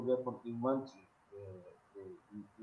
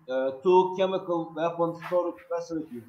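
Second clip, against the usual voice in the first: louder, projecting; 5 semitones higher, 10 dB louder than usual. Real, not acted. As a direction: speak up clearly. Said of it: "uh, make it loud".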